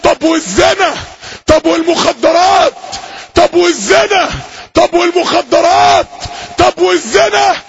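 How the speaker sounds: a dying sinner asks in mounting dread; dying man's panicked question. Retold or imitated. Dying sinner begging preacher, rising panicked questions.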